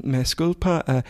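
halting, badly accented Spanish question; appalling Spanish. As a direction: ask in clumsy English-accented Spanish. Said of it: "my Spanish is appalling".

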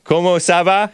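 Comment ça va with English accent; foreign accent in french. Shown as a demonstration. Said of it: "can you say that?".

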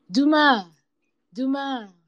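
high, drawn-out hail; calling out. A narrator's reading. Cat hails the cheetah, calling out. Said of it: "called the cat".

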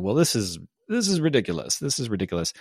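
lightly mocking art-critic voice; a hint of a snooty critic in a beret. Himself with his artist's beret on, mildly snooty critic. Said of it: "artist's beret on going".

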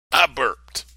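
put-on little boy. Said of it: "He's gonna get his "excuse me" in".

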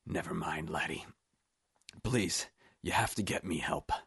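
faint, wounded voice; weak pleading. A narrator's reading. Shot Scottish Steve begs Roop for help, weakly. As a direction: plead weakly through the pain.

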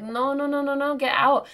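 high-pitched mock yell; rapid-fire string of high, pleading noes; yelling at dog. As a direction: re-enact calling a dog off in a panic. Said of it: "I'm, like, yelling at her".

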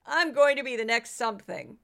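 hammed-up indignant rant, lightly voiced; mock a politician shouting down a rival; Kari Lake impression. Podcaster imitating Kari Lake in a war of words. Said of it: "she'd just be going".

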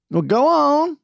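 high, loud goading; loud encouragement to let loose; urging him on. A narrator's reading. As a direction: egg him on with a rising holler. Urging Claude to yell.

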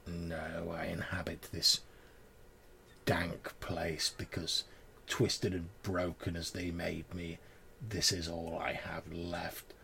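grieving crone voice. Acted. Crone continues her plea.

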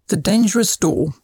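lively, measured storybook reading; expressive story read aloud; children's story narration. A narrator's reading. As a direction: read a short moral tale to children.

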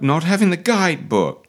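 mimicked pout, swelling in pitch and volume. Coach imitates her missing the guidebook, mock pout. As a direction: whine it like the sulking character. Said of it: "the way she pouts about".

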